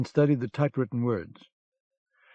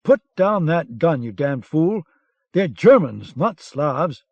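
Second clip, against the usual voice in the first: angry order; 3 semitones higher, 6 dB louder, slower than usual. Acted. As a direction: snap him out of it, loud. Lieutenant stops a shooting.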